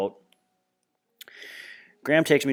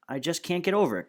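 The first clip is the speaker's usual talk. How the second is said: gushing grandma; 7 semitones higher than usual. Retold or imitated.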